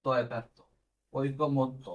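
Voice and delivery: ঐকমত্য dragged out very slowly; slow syllable-by-syllable dictation. Shown as a demonstration. Teacher slowly dictating ঐকমত্য syllable by syllable. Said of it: "আমরা এইভাবে লিখবো".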